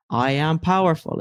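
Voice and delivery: "I am powerful" said flatly, with no conviction; a half-hearted affirmation that falls flat; limp, unconvinced. Shown as a demonstration. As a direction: say "powerful" like you don't believe it. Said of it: "that's the crappiest way to say that".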